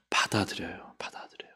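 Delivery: breathy whispered acceptance. Acted. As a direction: whisper it twice, fading. Whispered repeat.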